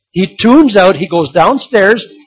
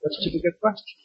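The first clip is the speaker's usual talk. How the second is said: soft, hushed divine reply; quiet heavenly voice; God's voice; 10 dB quieter, faster than usual. Retold or imitated. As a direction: answer gently from far away. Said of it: "this voice came back to him".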